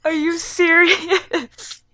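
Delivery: slow, whimpering disbelief; tearful disbelief. Real, not acted. Listener hearing the heartbreaking ending, tearful disbelief. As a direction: drag it out, half crying.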